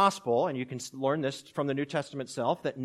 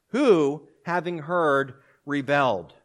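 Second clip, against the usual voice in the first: dramatic question; 7 dB louder, slower than usual. Acted. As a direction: fire the question at the congregation. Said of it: "he's asking a question and saying".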